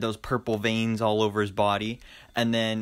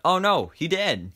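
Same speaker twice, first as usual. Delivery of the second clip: higher, drawn-out mock dismay; playfully dismayed, pitched up; 6 semitones higher, 4 dB louder than usual. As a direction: act out a slow "oh no" reaction. Acts out reaction to character's death.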